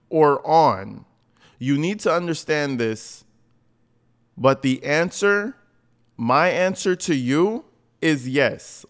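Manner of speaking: slow, pointed reading; rereading the reply slowly and mockingly; slow deliberate reread. Shown as a demonstration. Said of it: "I'm just gonna read it".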